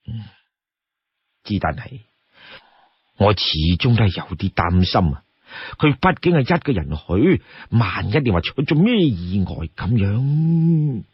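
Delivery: hesitant, mildly worried chief; low, doubtful start with lingering concern; Song Jiang. Acted. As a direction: voice your misgivings gently. Voices Song Jiang still worried.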